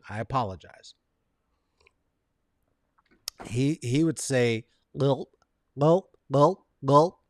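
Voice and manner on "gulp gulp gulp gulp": put-on failed Louisiana accent, swallowed "gulp"; badly faked Louisiana drawl on one word. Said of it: "that's not a Louisiana accent".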